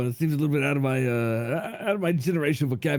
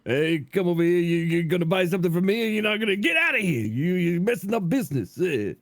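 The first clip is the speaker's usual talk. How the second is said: hustle them hard like a street vendor; gangster character voice; 3 semitones higher than usual. Acted. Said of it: "here's my character concept".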